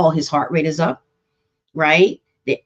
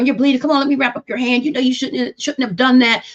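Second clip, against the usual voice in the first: scolding parent; 6 semitones higher than usual. Retold or imitated. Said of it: "Like scolding of some sort".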